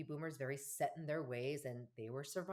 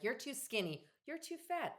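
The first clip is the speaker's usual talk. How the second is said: much higher, rising mock parental critique; higher teasing parent imitation; mock critical parents; 10 semitones higher, slower than usual. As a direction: imitate nagging parents commenting on looks. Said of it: "They're like".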